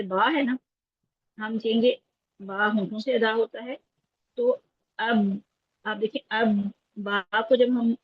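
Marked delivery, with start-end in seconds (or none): 6.3-6.5 اب with lips closed and held on the b, no release; sound shut off. Shown as a demonstration. Teacher showing students how closed lips swallow the sound, b unreleased in اب. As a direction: stop اب dead on closed lips, b left unheard. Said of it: "دونوں ہونٹ بند کرتے ہیں تو آواز بند ہو جاتی ہے".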